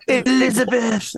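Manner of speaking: hammed-up imitation of a whisper-talker; whisper-talk impression. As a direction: draw it out, mocking his whisper talk. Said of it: "he whisper talks".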